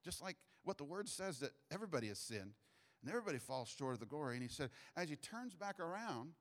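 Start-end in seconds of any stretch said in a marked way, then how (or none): 0.0-4.3 softer, murmured prayer to God. Retold or imitated. Man praying silently for the cursing guy, softer. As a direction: pray it quietly under your breath. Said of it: "I just whispered this little prayer".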